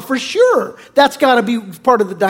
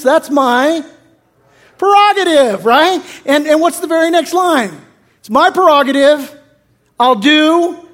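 defiant lyric quote; 5 semitones higher, 4 dB louder than usual. Retold or imitated. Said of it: "But here it is".

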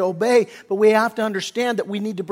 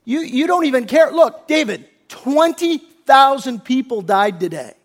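higher, exasperated reproach; acted yelling; 3 semitones higher than usual. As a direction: confront him as if yelling, without full volume. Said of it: "just yelling at him".

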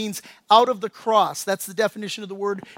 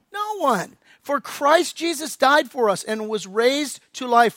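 fervent reading; 3 semitones higher, 3 dB louder than usual. Acted. Scripture read with rising force.

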